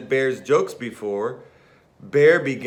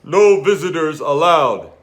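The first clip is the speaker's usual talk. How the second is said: sniffling; 3 semitones higher, 9 dB louder than usual. Acted. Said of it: "he sniffled".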